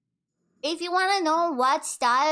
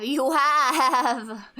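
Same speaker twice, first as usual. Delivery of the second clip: laughing through the words; giggling while saying it; 4 dB louder than usual. Real, not acted.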